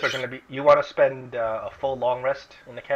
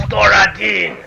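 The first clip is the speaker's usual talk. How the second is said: startled exclamation; 7 semitones higher, 11 dB louder than usual. Acted. Zunimar recognizes elf, exclaims.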